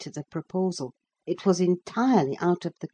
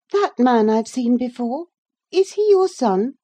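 put-on higher, louder bright young girl; eager girl Cathy; 8 semitones higher, 7 dB louder than usual. A narrator's reading. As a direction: call out like a lively girl on the moor. Cathy questioning Heathcliff.

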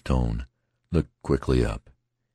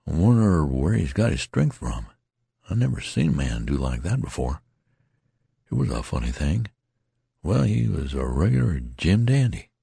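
tattered soldier, musing. Acted. Tattered man muses aloud.

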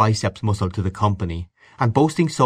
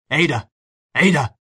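raised, higher-pitched call; bawling upstairs; 6 semitones higher, 3 dB louder than usual. A narrator's reading. Man calls upstairs for his wife, bawling. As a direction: bawl it up the stairs. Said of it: "He bawled upstairs".

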